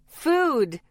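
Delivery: loud, high, eager shout. A narrator's reading. Hungry friends answer the dinner question, shouting. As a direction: yell it out together. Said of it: "the twins and I shouted".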